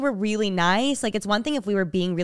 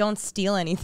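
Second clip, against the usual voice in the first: plain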